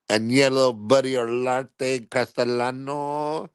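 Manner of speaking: slow, drawn-out full name; grand announcement. Pretend. Name of the mob kid announced slowly and grandly. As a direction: roll the name out proudly.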